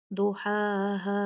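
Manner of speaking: "दुहाहा" with the last "हा" cut short; chanted "दुहाहा", ending not held; wrongly short stop. Shown as a demonstration. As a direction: stop early on the final "हा" of "दुहाहा". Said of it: "हमने ऐसे नहीं रुकना".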